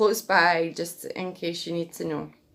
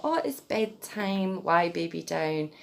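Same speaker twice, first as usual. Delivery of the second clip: put-on baby talk. Shown as a demonstration. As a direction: settle the baby gently. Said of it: "at bedtime".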